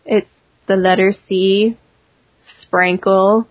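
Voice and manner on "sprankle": "Sprinkle" with the i turned to an a, "Sprankle"; said with an accent. Shown as a demonstration. Guest spelling out her online name, "Sprinkle" said as "Sprankle". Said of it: "saying it with an accent".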